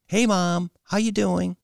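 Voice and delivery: high, loud sing-song greeting; sing-songy. A narrator's reading. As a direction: chirp a cheery hello to Mom. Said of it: "Kylie's voice became sing-songy".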